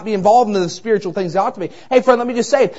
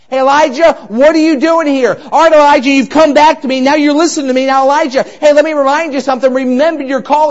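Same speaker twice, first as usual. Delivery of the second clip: higher and louder, firm and earnest; God speaking; 5 semitones higher, 5 dB louder than usual. Acted. God reminding Elijah of his calling, raised and commanding.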